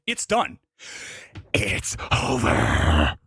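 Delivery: a low, angry producer voice cutting the filmmaker loose; furious studio boss. Pretend. Studio head firing Jason mid screening, low and furious. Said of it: "if I had made this film".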